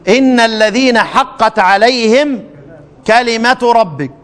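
slow, measured recitation; Quran recitation. Shown as a demonstration. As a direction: draw the verse out reverently. Recites the verse again.

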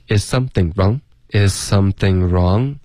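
"Is something wrong" linked into one rising question; connected phrasing. Shown as a demonstration. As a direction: join up "Is something wrong", word into word. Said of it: "连贯一点". (“Is something wrong”连贯地说，句尾上扬)

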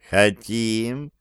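ordinary delivery, nothing marked

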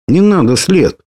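put-on the bird screams at Sled to spare the boy; frightened scream. A narrator's reading. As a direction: scream to stop him. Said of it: "закричала птица".

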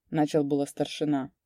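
usual speaking voice

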